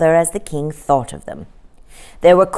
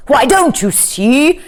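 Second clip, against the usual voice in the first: high, slow excited king; 7 semitones higher, 3 dB louder than usual. A narrator's reading. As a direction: burst out with the discovery. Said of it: "getting very excited".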